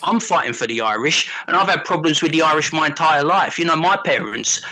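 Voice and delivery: lightly voiced South London geezer ranting; a hint of a London lad mouthing off, bruv; mild South London tirade at a mate. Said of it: "South London James voice".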